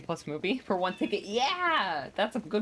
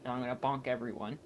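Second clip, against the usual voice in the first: righteous paladin declaration; 4 dB quieter than usual. Pretend. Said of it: "Ready for my voice?".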